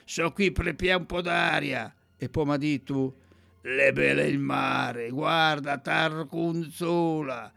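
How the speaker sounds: poem read in a rough, raspy voice. Acted. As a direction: rasp through the dialect verses. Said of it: "Ho provato a fare la voce rauca". (leggi con voce rauca e roca)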